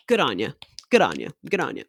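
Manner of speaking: put-on short, low Australian-accented praise. Mimic praises actors who hold accents, Australian accent. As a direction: toss it off in an Aussie accent.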